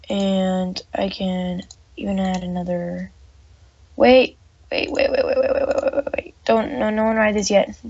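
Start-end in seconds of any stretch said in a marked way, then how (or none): 3.9-7.8 urgent. Real, not acted. Stopping riders urgently.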